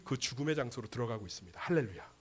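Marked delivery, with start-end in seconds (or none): none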